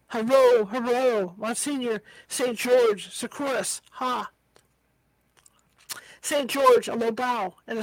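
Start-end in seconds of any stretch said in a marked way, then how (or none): 0.1-4.3 shouted cheer. Acted. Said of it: "thousands shouting". 6.2-6.9 loud call to the saint; battle cry. Acted. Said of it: "thousands shouting".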